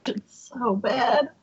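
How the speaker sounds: worn out from laughing; breathless after a laughing fit; after laughing hard. Real, not acted. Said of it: "my stomach hurts from laughing now".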